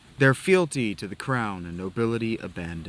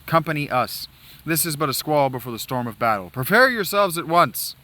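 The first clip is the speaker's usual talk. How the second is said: stern commander briefing. Acted. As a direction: address the recruits with authority.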